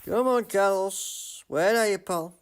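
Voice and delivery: urging on. Real, not acted. Gamer urging his driver Carlos to find pace. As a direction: cheer the driver on, pleading.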